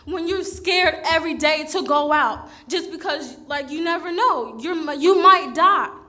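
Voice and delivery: real, raw anger spilling over with shaky laughter; getting emotional. Real, not acted. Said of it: "I'm sorry for getting emotional".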